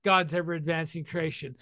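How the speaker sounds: a touch of awed eagerness, mostly in his own voice; eager newcomer. Retold or imitated. Newcomer at a meeting, inspired by the speaker, mildly excited. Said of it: "they go".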